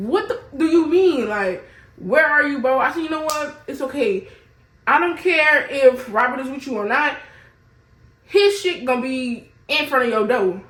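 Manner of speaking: fed up, putting her foot down on the phone; angry confrontation. Retold or imitated. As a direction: let him have it, heated and high.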